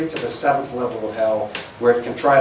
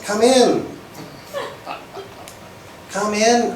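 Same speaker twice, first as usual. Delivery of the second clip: calling out; 10 semitones higher, slower than usual. Real, not acted. Welcoming latecomers.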